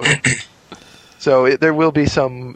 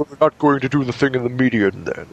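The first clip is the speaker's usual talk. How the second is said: lightly voiced English accent, sulky; a hint of a disappointed Englishman. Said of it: "He's like".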